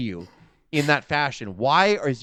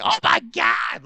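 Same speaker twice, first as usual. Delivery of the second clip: stretched-out, much higher mock gasp of disbelief; Joey Styles shock; 14 semitones higher, slower than usual. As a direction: exclaim it slowly like a stunned announcer. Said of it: "Joey Styles was like".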